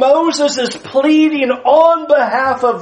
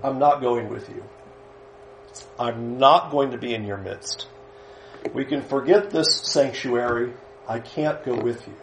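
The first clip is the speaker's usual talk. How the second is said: a much lower, softer, grave voice of God; hushed voice of God; 11 semitones lower, 11 dB quieter than usual. Acted. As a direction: speak low and heavy, as God withdrawing. God's withdrawal voiced by preacher.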